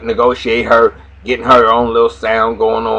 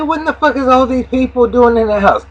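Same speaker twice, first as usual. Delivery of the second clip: mock outraged Lucius; 11 semitones higher than usual. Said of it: "He said".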